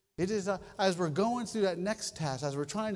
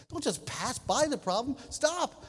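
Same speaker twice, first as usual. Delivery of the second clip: high sharp command; mock parental command; 6 semitones higher than usual. Preacher voicing a parent correcting kids, high stop. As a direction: tell the kid to halt.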